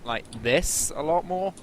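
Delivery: slow demonstration of a Welsh accent. Shown as a demonstration. Explaining to friends the harder voice, Welsh accent. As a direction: show your thicker Welsh accent, unhurried. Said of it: "when I speak like this".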